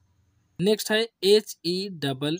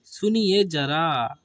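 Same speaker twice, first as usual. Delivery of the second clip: 1 slow polite call; 2 semitones lower, much slower than usual. Shown as a demonstration. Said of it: "बोलते नहीं हेलो".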